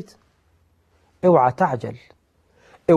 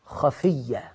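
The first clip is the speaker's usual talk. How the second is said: much softer and lower, a hidden call; hushed; 5 semitones lower, 8 dB quieter, much slower than usual. Shown as a demonstration. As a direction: drop to a soft, low voice. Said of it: "إذ نادى ربه نداء خفيا".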